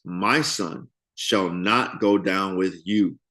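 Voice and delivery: each word spaced out and firm; slow emphatic refusal. A narrator's reading. Reading Jacob's refusal to his sons, slow and emphatic. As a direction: Jacob emphatically states it, slowly. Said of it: "Jacob emphatically states".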